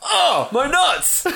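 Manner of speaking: high slow pained groan; squeaky slow ow my nuts voice; just hit in the groin. Acted.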